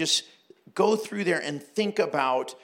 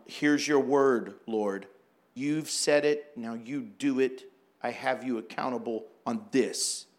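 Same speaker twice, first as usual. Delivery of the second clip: demanding prayer; 4 semitones lower than usual. Retold or imitated. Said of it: "People who think faith sounds like this".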